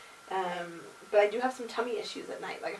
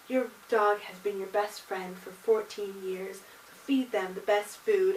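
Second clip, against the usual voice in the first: ad voiceover; 3 dB louder, slower than usual. Retold or imitated. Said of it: "they're like".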